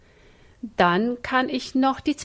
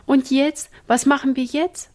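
higher, louder, at a loss; helpless asking; 5 semitones higher, 4 dB louder than usual. Acted. Ina asks the brothers what to do, helpless. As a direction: ask in mild helpless panic. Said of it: "fragte Ina ratlos".

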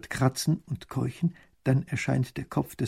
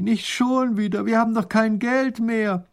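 groaning; 11 semitones higher, 5 dB louder, slower than usual. Acted. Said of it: "stöhnt Raffini".

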